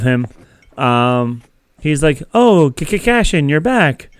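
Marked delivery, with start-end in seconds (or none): 2.3-4.1 higher, excited, stammering little droid; stuttering droid. Retold or imitated. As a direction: stammer the name like an eager droid. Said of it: "I love his stutter".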